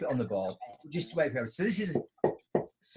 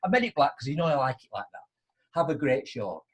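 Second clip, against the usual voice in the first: higher, louder gushing staff voice; mock-grovelling attendant welcomes the regular client; overly polite attendant; 5 semitones higher, 4 dB louder than usual. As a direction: fawn over a valued customer. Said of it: "So what you should be saying is".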